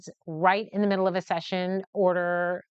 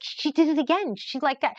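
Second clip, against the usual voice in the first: high, louder excited rush; excited dad; 8 semitones higher, 3 dB louder than usual. Retold or imitated. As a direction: gush like a thrilled dad. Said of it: "he was, like, super excited".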